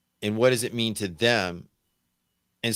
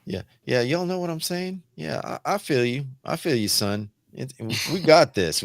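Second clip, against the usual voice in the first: Southern twang; 3 semitones higher than usual. Acted. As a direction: slip into a bit of a Southern US twang, pitched up. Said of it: "speak with a little twang".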